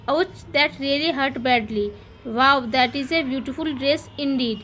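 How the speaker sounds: slow, careful teacher reading; slow example reading. Shown as a demonstration. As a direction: spell the sentence out slowly for kids. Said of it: "teacher reads interjection examples". (धीरे-धीरे उदाहरण पढ़ना)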